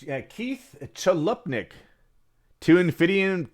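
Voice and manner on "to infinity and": a lightly voiced heroic space ranger, pitched up; a hint of Buzz Lightyear's bold catchphrase, cut off; playful nod to a viewer's request, half-done; Buzz Lightyear impression. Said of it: "Buzz Lightyear, thank you".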